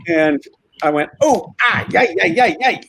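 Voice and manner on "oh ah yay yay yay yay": retold pained yelp. Acts out yelping when leg crushed.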